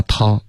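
"talk" trailing off without a closed k; open ending. Shown as a demonstration. Teacher shows student the mistake, trailing ending. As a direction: leave "talk" open at the end. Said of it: "需要有一个干脆的停顿".

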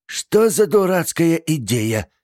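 high, loud slow outcry; exclaiming. A narrator's reading. Aunt crying out at niece, indignant. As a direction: cry out indignantly. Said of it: "вскричала Тильди".

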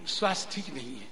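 low, soft, quickly dropped excuse; feigned illness excuse. Acted. Disciple excusing himself from guru's chore, feigned poorly voice. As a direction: beg off in a sunken voice.

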